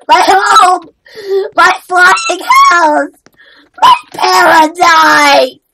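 slow, drawn-out hammed-up lament; mock wailing. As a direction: wail it out in mock despair. Acted grief over lost house.

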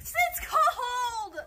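laughing yell. Real, not acted. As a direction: shout it through laughter. Stepping out into cold.

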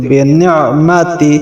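বিনি'মাতি with the ain caught in the throat; Arabic ain inside বিনি'মাতি. Shown as a demonstration. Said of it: "আইনের উচ্চারণ গলার ভিতর থেকে".

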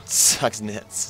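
backwards speech. Pretend. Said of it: "Sounds like you're saying something backwards".

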